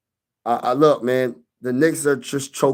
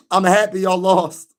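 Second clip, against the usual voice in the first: higher, insistent taunt without laughter; emphatic gloating; 4 semitones higher than usual. Real, not acted. Streamer repeating his taunt to Knicks fans, emphatic. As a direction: declare it firmly to the losing fans.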